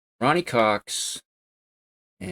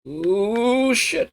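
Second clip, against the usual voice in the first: sudden much higher yelp of surprise; startled yelp; 4 dB louder than usual. Real, not acted. Gamer yelps at a crash on screen, surprised. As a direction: caught off guard by a crash, yelping up high. Racing game goes wrong.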